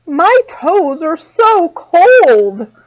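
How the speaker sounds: high, slow little squirrel voice. A narrator's reading. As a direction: shiver it out as a tiny squirrel. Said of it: "said the squirrel".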